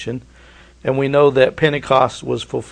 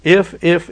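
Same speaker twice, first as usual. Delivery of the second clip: "If, if" with both words leaned on, a little louder; stressing if; 4 semitones higher, 4 dB louder than usual. Shown as a demonstration. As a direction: press each "If" before going on. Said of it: "I emphasize the word if".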